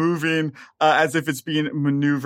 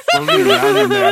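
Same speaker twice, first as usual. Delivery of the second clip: put-on bright magical girl; 8 dB louder, faster than usual. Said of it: "a full magical girl transformation sequence".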